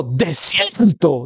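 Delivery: "¡Desierto!" drawn out slowly as an exclamation; exclaimed word. Shown as a demonstration. Preacher showing an exclamation on "¡Desierto!", drawn out slowly. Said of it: "pues yo digo".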